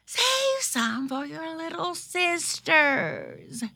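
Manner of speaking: high-pitched motherly plea; admonishing mother rabbit. Acted. Mother admonishing Thumper in story.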